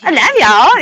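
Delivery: "y'all" swung upward; decibel swooping. Retold or imitated. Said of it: "hear your fucking decibel went".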